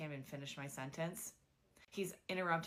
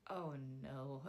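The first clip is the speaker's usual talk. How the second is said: dismayed oh no; 4 semitones lower, 5 dB quieter than usual. Retold or imitated. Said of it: "I know he could see it on my face".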